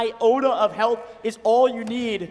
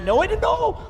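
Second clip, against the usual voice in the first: excited shout; 9 semitones higher than usual. Real, not acted. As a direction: yell it out as the shot lands. Caster erupts at big play.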